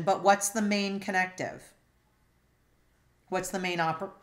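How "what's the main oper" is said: hiccup breaking the word. Real, not acted. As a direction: talk through hiccups. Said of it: "Excuse me for hiccuping".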